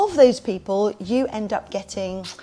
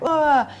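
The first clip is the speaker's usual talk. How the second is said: loud, high "ah" thrown back; raised teasing retort; mock comeback "ah"; 6 semitones higher, 6 dB louder than usual. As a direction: jeer back at the kid with a noise. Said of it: "sort of rebuttal them back".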